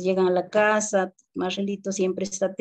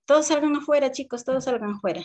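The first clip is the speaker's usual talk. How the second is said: put-on teacher ordering children out; 6 semitones higher, faster than usual. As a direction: send the class out to recess.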